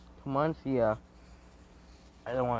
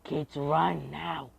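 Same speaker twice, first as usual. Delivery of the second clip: slow, raised, drawn-out warning; urgent warning; 4 semitones higher, much slower than usual. Acted. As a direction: stretch each word out, pitched up. Acted warning to kids.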